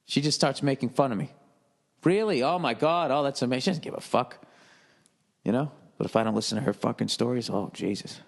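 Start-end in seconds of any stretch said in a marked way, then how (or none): 2.0-3.6 higher, fake-impressed sarcasm; a touch of sarcastic wife, lightly voiced; mock-sarcastic wife. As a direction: play his wife's bored mock amazement. Wife mocks his football story.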